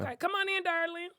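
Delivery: bright welcome for a guest; open and friendly. Real, not acted. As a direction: welcome her in like a dear friend.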